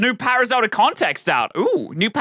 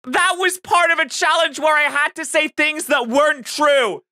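outraged; 6 semitones higher than usual. Real, not acted. Outraged at covered-up challenge.

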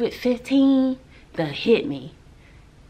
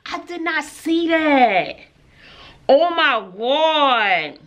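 embarrassed; 3 semitones higher, slower than usual. Real, not acted. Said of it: "I'm embarrassed".

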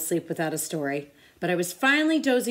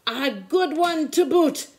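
higher, louder, slow crew chant; pirate crew yell; 8 semitones higher, 4 dB louder, slower than usual. A narrator's reading. Crew echoes the captain's praise: slow hearty yell. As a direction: echo it like a rowdy crew. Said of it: "the others yelled".

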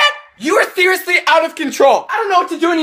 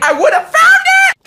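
exasperated shout; 13 semitones higher, 5 dB louder than usual. Acted. Frustrated rant about lost things.

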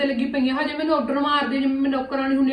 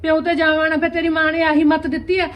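angry retort; 3 semitones higher, 6 dB louder than usual. Acted. Sisters-in-law quarrel over parents.

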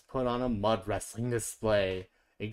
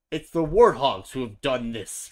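crying out; 10 dB louder than usual. A narrator's reading. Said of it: "cried the other animals".

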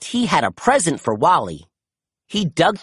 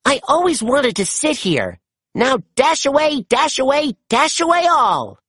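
pretending to be Santa; 10 semitones higher than usual. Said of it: "pretended to be Santa".

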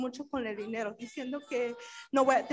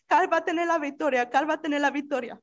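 crying; 5 dB louder than usual. Retold or imitated. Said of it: "estoy llorando".

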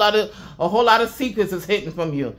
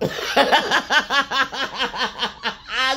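high bursting laugh; real delighted laughter at her own story; 7 semitones higher than usual. Real, not acted. Laughing to her viewers about the angels.

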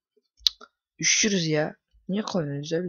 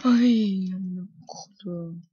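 whispered swearing under the breath; hissed curse; much slower than usual. Real, not acted. Gamer whispering a curse at the screen, hushed. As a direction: curse it almost silently, slow.

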